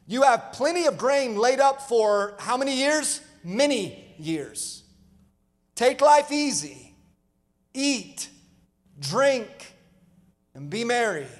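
lightly voiced rich man congratulating himself; a rich man telling himself to relax, in a mock-contented tone; self-satisfied rich man. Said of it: "And I'll say to myself".

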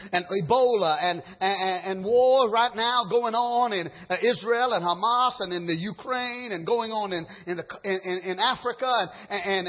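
building revival preaching; fiery preaching. Acted. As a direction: preach it like the end is near. Preaching end-times at full force.

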